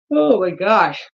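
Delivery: talking through a yawn. Real, not acted. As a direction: yawn out the words. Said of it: "The yawning".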